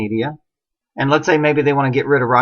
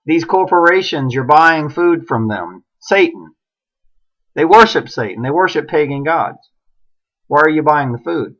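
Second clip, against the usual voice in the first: a hint of a raging prophet, somewhat louder; mock screaming Jesus; 3 semitones higher, 4 dB louder than usual. Imagined Jesus scolding Walmart shoppers, mild mock yell. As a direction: play Jesus half-heartedly yelling at shoppers. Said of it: "he'd start screaming".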